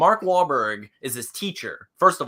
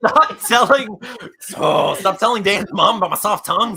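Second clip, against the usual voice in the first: loud, higher-pitched scolding in jest; mock outrage; 7 semitones higher, 10 dB louder than usual. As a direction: protest loudly, playfully scandalized. Mock protest at co-host's embarrassing remark.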